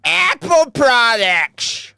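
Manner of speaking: slow disgusted drawl; scornful drawl. Real, not acted. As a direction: sneer the words slowly. Scornful repeat.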